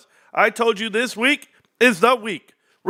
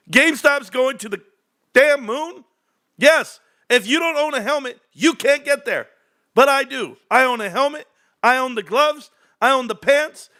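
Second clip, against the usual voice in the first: pitched up, pumped hype-man delivery; real excitement, voice pitched up and punchy; hyped; 4 semitones higher than usual. Real, not acted. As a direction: sell it like launch day is here. Hyping GameStop launch on stream.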